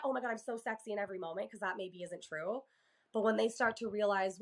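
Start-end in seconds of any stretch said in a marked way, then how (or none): 0.0-1.5 mock self-praise.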